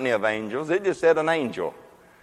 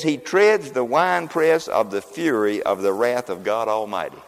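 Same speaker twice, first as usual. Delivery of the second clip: slow scripture reading; 2 semitones lower than usual. Shown as a demonstration. Preacher reading scripture slowly to the congregation. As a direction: read slowly and gravely, word by word. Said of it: "that doesn't mean much just to read that".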